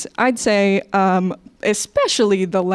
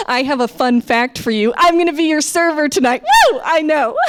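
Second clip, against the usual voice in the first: high whooping server excitement; over-eager American server; 6 semitones higher, 4 dB louder than usual. Acted. Server introducing herself to customers, hammed-up excitement. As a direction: announce it like thrilling news, bursting into a whoop. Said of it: "if I was serving, like, you in America".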